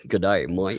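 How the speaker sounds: mock Aussie greeting; Australian accent. Co-host answering a challenge to do Australian, mock Aussie accent. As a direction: put on a hammy Australian accent. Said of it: "can do an Australian accent".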